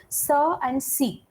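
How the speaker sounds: C said as a soft S sound before E and I; soft c demo. Shown as a demonstration. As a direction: sound "Sir and C" with a hissing S. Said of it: "you will pronounce this as sir and this as C".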